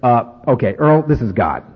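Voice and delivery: lightly voiced God on the PA; a hint of a weary announcer God; mock God on the loudspeaker. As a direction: play an exasperated God paging him. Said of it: "over the loudspeaker we didn't hear".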